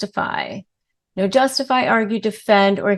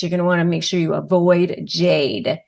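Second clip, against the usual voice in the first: usual speaking voice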